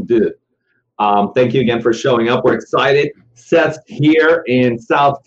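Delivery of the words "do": "do." said like French deux; mock French "do." for two; French accent. Shown as a demonstration. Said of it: "do in French accent".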